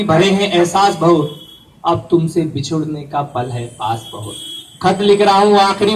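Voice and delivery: measured mushaira-style verse delivery; poem recitation. Acted. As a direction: recite it line by line with pauses. Recites own poem, soldier's last letter. (कविता पाठ के अंदाज़ में)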